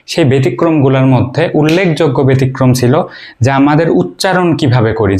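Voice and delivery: ordinary talk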